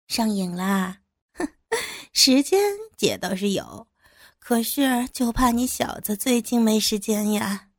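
laughing. Acted. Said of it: "笑着说".

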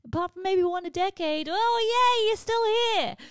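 high, loud scornful sneer; mock dismissive. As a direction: brush them off with scorn. Mock voice of birthday at forty.

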